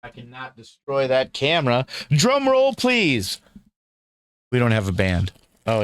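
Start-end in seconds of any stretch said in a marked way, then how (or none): 2.1-3.4 high, showy drum roll call; announcer voice. Acted. Announcing a big reveal.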